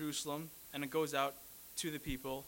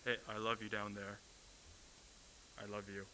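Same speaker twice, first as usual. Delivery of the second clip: mock distant call from heaven; 6 semitones lower, 6 dB quieter than usual. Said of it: "shout it from up, up in heaven".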